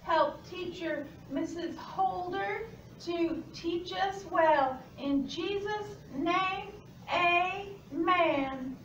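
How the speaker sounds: prayer. Real, not acted. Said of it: "let's pray before we start".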